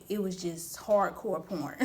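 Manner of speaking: slow, laughing through the words; real laughter, slowed down. Real, not acted. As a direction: giggle it out slowly. Laughing while recounting the month.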